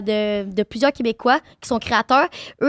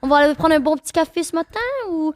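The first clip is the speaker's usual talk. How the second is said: lightly put-on Parisian French accent; mock France French; 3 semitones higher than usual. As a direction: imitate a French person from France, hesitant fillers. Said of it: "genre français de France". (imitation légère de l'accent de France)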